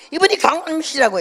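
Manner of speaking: high, fast repeat; repeating loudly. Retold or imitated. Pastor repeating the introduction to his mother, loud, high and fast. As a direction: say it again so she hears.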